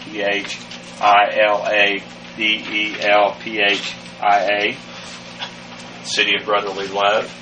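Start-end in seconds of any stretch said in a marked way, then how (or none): 0.0-4.8 Philadelphia spelled slowly, letter by letter; slow spelling. Shown as a demonstration. Teacher spelling Philadelphia slowly for the class.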